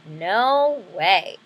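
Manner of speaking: firm refusal. Acted. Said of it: "And she said".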